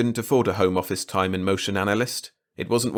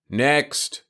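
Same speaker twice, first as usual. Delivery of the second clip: pontifical; 6 semitones higher than usual. A narrator's reading. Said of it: "Starzer said pontifically".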